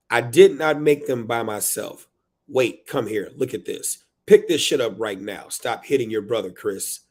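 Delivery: dramatic reading of a scolding parent; harried parent reading. Acted. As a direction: punch the openings, tail off on the name. Performs book's harried parent.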